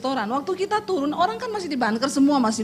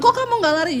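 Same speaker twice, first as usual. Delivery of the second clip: surprised question; 10 semitones higher, faster than usual. Retold or imitated. Wife challenging husband.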